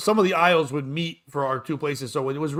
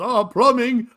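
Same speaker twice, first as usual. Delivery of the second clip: mock yell; 7 semitones higher, 6 dB louder, slower than usual. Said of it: "why he yelled plumbing".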